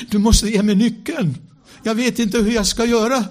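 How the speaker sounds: high, loud desperate cry to the Spirit; retelling his frantic inner prayer for the key; urgent plea. Retold or imitated.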